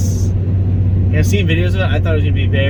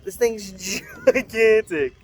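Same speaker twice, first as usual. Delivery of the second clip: laughing in awe; 6 semitones higher, 5 dB quieter, slower than usual. Real, not acted. Laughing at the truck's size.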